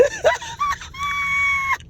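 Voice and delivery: long, very high-pitched cackle; real uncontrollable laughing fit; helpless laughter. Real, not acted. Recapper cracks up at her own story, laughing helplessly. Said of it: "I don't mean to laugh".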